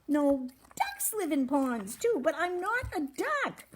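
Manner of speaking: high-pitched storybook animal voice; Cork correcting. A narrator's reading. Cork sets Fuzz straight about ducks, emphatic. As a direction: explain emphatically in a high character voice.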